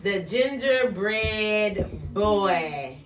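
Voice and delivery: very slow title announcement; title read slowly. Shown as a demonstration. Teacher announces the book title to the class, slowly. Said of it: "a book from Mister Jace".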